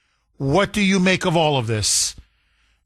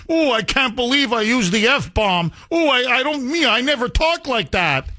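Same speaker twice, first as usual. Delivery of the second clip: prissy mock shock, pitched a bit higher; mock pearl-clutching; 5 semitones higher than usual. Host mocking the swearing congresswoman, lightly prissy mock. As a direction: gasp like a prim lady caught swearing. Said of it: "she's clutching her pearls".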